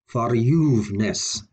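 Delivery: verJUVEness, slow with a drawn-out juve; stress on juveness. Shown as a demonstration. Teacher demonstrating a rarely stressed prefix, stress on juveness. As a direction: stretch juve in Verjuveness, ver lighter. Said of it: "Notice the stress was on juveness".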